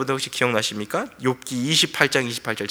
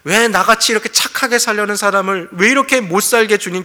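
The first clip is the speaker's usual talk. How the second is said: aggrieved protest; 5 semitones higher, 3 dB louder than usual. Acted. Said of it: "정말 하나님이 실수하신 줄 알았어요".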